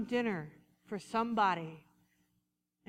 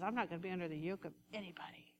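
fast, defiant whisper; whispered inner rebellion; stubborn whisper; 7 semitones lower, 12 dB quieter, much faster than usual. Retold or imitated. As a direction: hiss it like a proud inner voice. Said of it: "that part of us that says".

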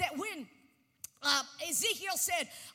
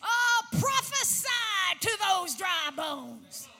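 slow, loud prophetic command; preacher voicing God's call; proclaimed word from God; 5 dB louder, slower than usual. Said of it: "I hear a word from God saying".

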